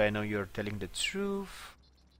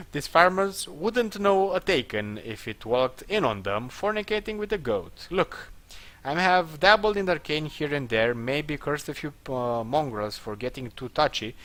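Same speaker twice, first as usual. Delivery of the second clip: higher, louder acted character voice; defiant captive, pitched up; indignant accused woman; 5 semitones higher, 5 dB louder than usual. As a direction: protest the charge in a raised character voice. Voices Ralia defending herself.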